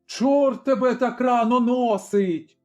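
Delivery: angry shout. A narrator's reading. Tavern keeper curses the early visitor, angry yell. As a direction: snap at the pest knocking so early. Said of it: "кричала сердито".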